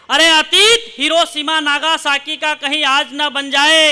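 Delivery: deliberate, weighty poet's delivery; slow heroic recital. Acted. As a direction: draw each word out as a warning.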